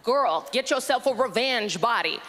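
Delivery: lightly voiced camp British friend; a hint of sassy camp advice. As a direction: demonstrate the gay best friend's voice. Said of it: "That's the voice".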